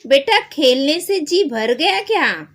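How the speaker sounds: put-on a doctor gently teasing a sick boy; kind doctor. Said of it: "वैद्य जी पूछते हैं". (प्यार से पूछते वैद्य जी)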